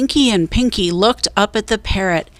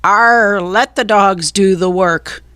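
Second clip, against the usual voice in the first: growled. A narrator's reading. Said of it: "growled Cap'n Bones".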